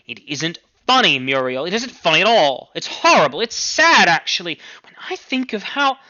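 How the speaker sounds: mother appalled at the nickname he uses; upset mother. Acted. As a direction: let the mother's dismay climb.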